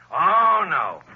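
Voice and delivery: mock the offer with a laugh; scornful laugh. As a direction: gangster laughing off the deal.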